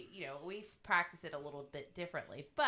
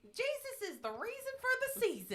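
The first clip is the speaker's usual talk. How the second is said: mock pious. Mocking a churchy saying.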